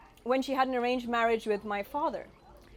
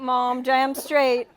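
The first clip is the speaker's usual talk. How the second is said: emphatic cheer; 6 dB louder, much slower than usual. Real, not acted. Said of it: "cheering her mother's comeback".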